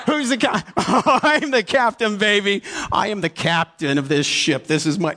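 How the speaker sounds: high, gleeful boast, slowed on the captain line; triumphant. Retold or imitated. Woman crowing to herself in the parking lot, gleeful boast. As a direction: crow it like you just won.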